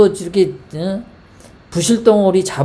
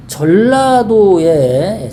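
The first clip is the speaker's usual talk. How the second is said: drawn-out opener; 4 dB louder, much slower than usual. Real, not acted. Commentator opening the Jeolla drought story, slow stretched emphasis. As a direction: say 전라도에 very slowly and a little louder, stretching it. Opens the news topic, drawn out.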